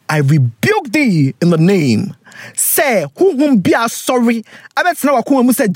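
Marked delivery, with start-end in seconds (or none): 0.1-2.1 mock preacher rebuke.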